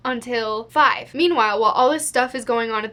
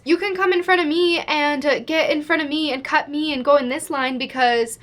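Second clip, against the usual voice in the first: pushy shopper; 3 semitones higher than usual. Retold or imitated. Woman offers old man her place in line, mildly insistent imitation. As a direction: imitate someone calling a stranger over.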